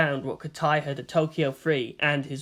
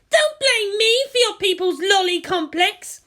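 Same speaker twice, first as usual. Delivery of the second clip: put-on higher, louder teen yell; shouting girl; 5 dB louder than usual. A narrator's reading. Asuka yells at Misato, higher and louder. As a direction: throw the accusation back at her. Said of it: "Asuka shouted".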